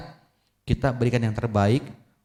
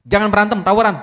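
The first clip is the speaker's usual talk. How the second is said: much louder, higher firm order; stern father; 9 semitones higher, 8 dB louder, faster than usual. Acted. Father loudly forbidding his son to skip school. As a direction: bark the rule.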